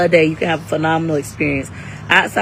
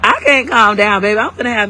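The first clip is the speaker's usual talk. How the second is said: hyper; 4 semitones higher, 6 dB louder than usual. Real, not acted. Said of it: "I'm so hyper".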